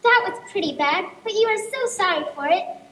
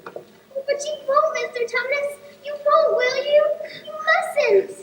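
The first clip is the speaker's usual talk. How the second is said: pleading; 5 semitones higher, slower than usual. Acted. Lucy pleads with faun.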